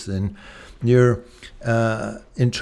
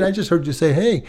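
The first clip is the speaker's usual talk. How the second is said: mimicking wife's casual ask; 4 semitones higher, faster than usual. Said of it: "I didn't hear you begging".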